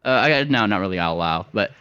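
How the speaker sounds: a flighty little rascal egging them on; high excited bird voice. Acted. Coaxing the drunk sailors toward the warehouse, high and eager.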